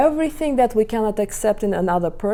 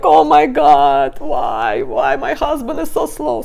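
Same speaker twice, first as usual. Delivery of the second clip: higher, louder dramatic complaint; higher, louder mock exasperation at husband; exasperated outburst; 5 semitones higher, 6 dB louder, slower than usual. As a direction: throw up your hands, louder and high.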